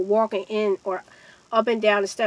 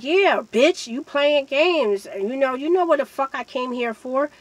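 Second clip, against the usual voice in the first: imitated irritation, a little raised; retold angry accusation; 3 semitones higher than usual. Storyteller voices the man accusing her, mildly angry.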